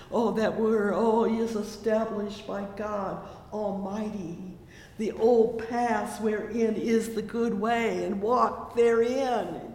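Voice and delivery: fervent preaching voice; preaching at full force. Acted. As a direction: lift it up like a revival preacher.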